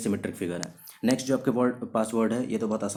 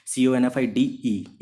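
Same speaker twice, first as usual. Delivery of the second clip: spelled out slowly; 4 dB louder, slower than usual. Shown as a demonstration. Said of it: "spelling देख लीजिए".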